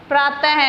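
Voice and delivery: प्रातः ending in an audible "ha"; visarga as H. Shown as a demonstration. Teacher giving a visarga example, प्रातः said with final "ha". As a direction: sound the final ः of प्रातः as a breath of H. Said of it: "है की तरह किया जाता है".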